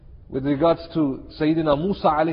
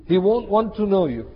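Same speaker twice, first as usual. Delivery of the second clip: ordinary delivery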